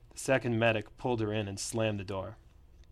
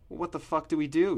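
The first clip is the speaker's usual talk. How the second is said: panicked yell, higher and louder; 7 semitones higher, 5 dB louder than usual. A narrator's reading. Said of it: "yelled Chris".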